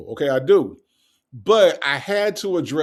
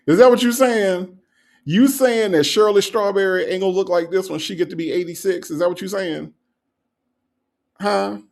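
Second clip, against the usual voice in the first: mock indignation; 3 semitones higher than usual. Host grills a commenter over her remark, mock indignant. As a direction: demand an answer in mock outrage.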